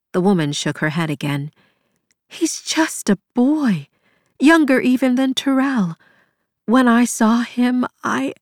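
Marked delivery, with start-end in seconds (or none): 2.3-8.3 anguished. A narrator's reading. Anguished about the boy.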